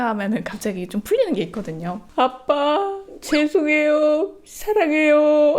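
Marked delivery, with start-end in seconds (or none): 2.1-5.6 put-on higher, very slow, drawn-out little-kid plea; teary child apology. Mom imitating her son apologizing to dad. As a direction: stretch it out like a crying toddler.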